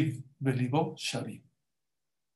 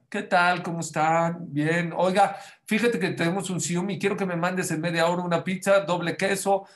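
raised, cheery voice ordering pizza; teacher fakes an order on a toy phone, lightly raised; mock phone order; 3 semitones higher than usual. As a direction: play it up like a real phone order. Teacher pretends pizzeria call.

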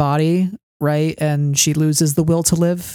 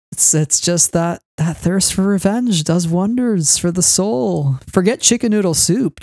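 mock villain musing; 4 semitones higher, slower than usual. Riffing on the Inquisitor's line.

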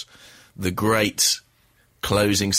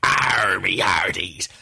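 hoarse leprechaun voice; much slower than usual. Pretend. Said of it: "limited range I'm working with".

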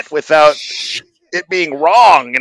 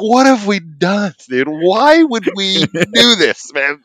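higher-pitched mock despair; near-tears despair; 5 semitones higher, slower than usual. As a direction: lament it like a panicked new dad near tears. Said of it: "about to cry".

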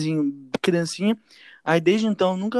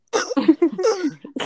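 imitated choking; 13 semitones higher than usual. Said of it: "gente, morrendo sem nada".

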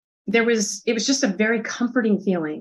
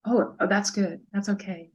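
reassuring; 4 dB quieter than usual. Retold or imitated. Woman reassures a crying child.

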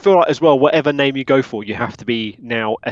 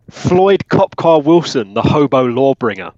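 grand announcement; 3 dB louder, slower than usual. Acted.

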